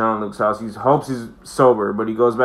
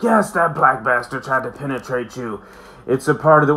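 mock drunk Picard; 3 semitones higher than usual. Picard confirming to Wesley.

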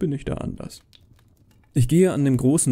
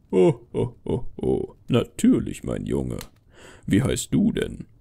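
put-on ho-ho-ho as Father Christmas greeting a child; 11 semitones lower than usual. Santa greeting a boy who asked, jolly low voice.

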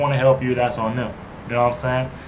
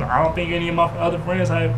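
normal talking voice

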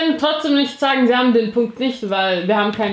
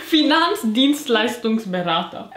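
slow; slower than usual. Real, not acted. Reads absurd guess slowly.

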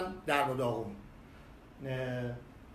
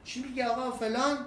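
high, exasperated protest; irritated; 7 semitones higher than usual. Retold or imitated. Actor snapping back at the nosy attendant, annoyed protest. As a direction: push back, annoyed at the question. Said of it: "آقا عصبی شدن".

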